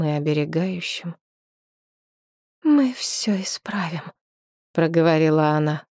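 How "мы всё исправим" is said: whispering. A narrator's reading. Whispered promise to the dragon.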